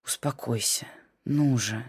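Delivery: low, soft hushing of a weeping wife; calm her down gently; husband soothing his crying wife, softly. Acted. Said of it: "только и приговаривал Имран".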